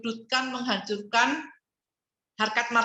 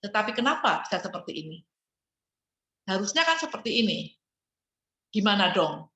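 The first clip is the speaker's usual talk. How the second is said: calm question. Shown as a demonstration.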